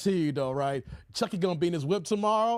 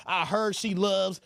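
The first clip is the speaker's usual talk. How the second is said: slow, lower, drawn-out read; deliberately slower; 5 semitones lower, much slower than usual. Real, not acted. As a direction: stretch each word out teasingly. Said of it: "Had to say that a little slower".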